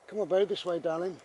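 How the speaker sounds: high, fond coaxing; coaxing the dog. Real, not acted. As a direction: coax the dog along. Calling to dog.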